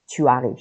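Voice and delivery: tu arrives with the u of tu kept whole before arrives; no elision. Shown as a demonstration. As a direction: say tu arrives, keeping both vowels apart. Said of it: "الیزیون صورت نمیگیره". (tu arrives بدون حذف صدای tu)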